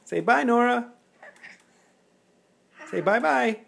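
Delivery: put-on high coaxing baby talk. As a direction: coax a goodbye up high.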